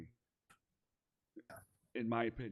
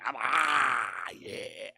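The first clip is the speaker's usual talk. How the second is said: demonstrated yell; 4 dB louder, much slower than usual. Shown as a demonstration. Demonstrates own over-the-top yelling.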